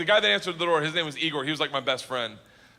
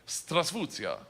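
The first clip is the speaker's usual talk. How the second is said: lightly voiced beginner's Russian; broken Russian; 5 semitones lower, 4 dB quieter than usual. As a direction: recite a memorised Russian line, unsure. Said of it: "I was gonna say".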